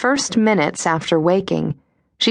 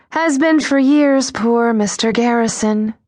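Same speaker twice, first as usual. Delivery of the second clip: breathy voice; 5 semitones higher than usual. Acted. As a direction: sigh it out with pity, breathy. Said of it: "Breathy voice".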